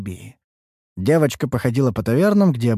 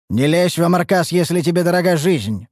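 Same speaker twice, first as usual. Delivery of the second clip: higher, louder warning shout; stern warning; 7 semitones higher, 3 dB louder than usual. Acted. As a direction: warn her off firmly. Караванщик предостерегает. (грозное предостережение)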